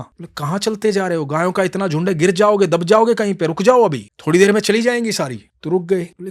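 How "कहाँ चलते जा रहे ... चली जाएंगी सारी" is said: put-on higher, louder boy warning; urgent little cowherd; boy warns the old man of the cows; young boy.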